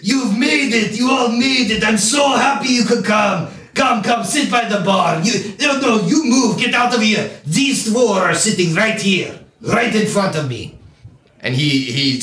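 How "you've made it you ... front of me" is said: booming voice. Acted. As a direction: boom out a jolly welcome to old friends. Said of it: "you hear Zokar's booming voice".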